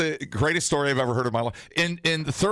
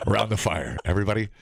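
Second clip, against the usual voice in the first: hushed creepy legend telling; 3 semitones lower than usual. Pretend. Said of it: "retell this story like a Christmas poem".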